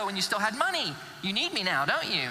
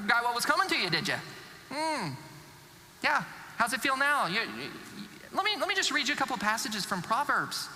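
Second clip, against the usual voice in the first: judgmental remarks. Acted. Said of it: "filled with judgmental remarks".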